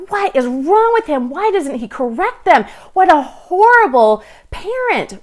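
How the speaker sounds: imitating annoyed woman. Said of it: "she was just thinking to herself".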